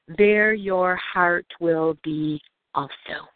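measured, lightly solemn Bible reading; scripture reading. Acted. Speaker reads Matthew's verses to the listeners, measured scripture reading. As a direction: read it out evenly, slowing toward the end.

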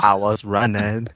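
lightly mocked Southern drawl accent; Forrest Gump. Co-reader joins the movie quote, mock Southern accent. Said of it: "Forrest Gump".

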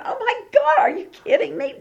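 put-on laughing old woman who can't believe it; incredulous surprise. Imitating Sarah, stunned and amused. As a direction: pitch shoots way up in disbelief. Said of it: "you're going".

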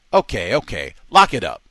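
loud barked order; guards yelling. A narrator's reading. Guards yelling at prisoners to lock up, loud. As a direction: yell it down the corridor. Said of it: "they yelled".

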